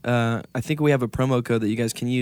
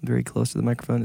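close to the mic. Shown as a demonstration. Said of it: "getting really close".

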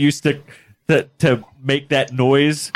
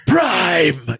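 villain's rasping shout; mock villainous roar; Megatron; 4 semitones higher than usual. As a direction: bark it like a cartoon arch-villain. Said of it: "Megatron. And he's like".

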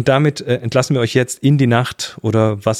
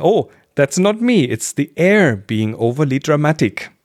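sun character voice. Acted. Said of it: "Dann sagt die Sonne".

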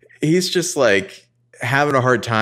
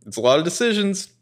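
mock fluster that rises to a squeak on ton; flustered Ezra; 7 semitones higher than usual. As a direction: voice climbing higher as the panic mounts. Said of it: "he's like".

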